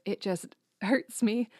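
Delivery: mock Southern lady with a giggle; hammed-up Southern accent. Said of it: "I don't know why I'm doing that accent".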